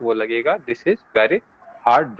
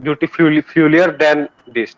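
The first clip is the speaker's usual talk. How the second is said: slow wrong example; much slower than usual. Shown as a demonstration. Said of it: "ऐसा नहीं बोल सकते".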